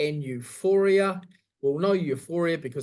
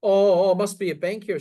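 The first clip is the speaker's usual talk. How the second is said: flustered husband; 4 semitones higher, 7 dB louder than usual. Retold or imitated. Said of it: "And he goes".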